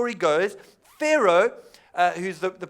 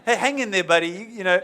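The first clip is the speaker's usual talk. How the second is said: hedging buddy. Retold or imitated. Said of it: "if I was Joseph, I would have been like".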